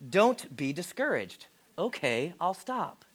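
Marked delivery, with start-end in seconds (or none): 0.1-1.5 mock blunt. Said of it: "He says".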